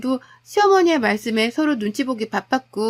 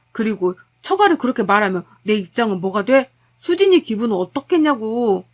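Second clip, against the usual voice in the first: exasperated husband; 2 semitones lower than usual. Acted. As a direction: scold your mother, fed up. Husband rebukes his mother.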